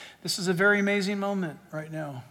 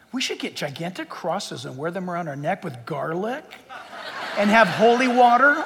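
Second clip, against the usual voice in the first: mock suggestion. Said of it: "I'm being sarcastic".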